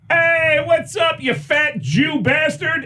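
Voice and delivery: high mock shout, slowing at the end; hammed-up shouted greeting; buddy's jokey shout. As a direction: yell the insult as a joke. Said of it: "my buddy John goes".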